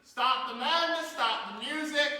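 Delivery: high-pitched shout easing to firm command; calling a halt. Pretend. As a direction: cut them off loudly, then ease back. Cuts off the monologue, calling stop.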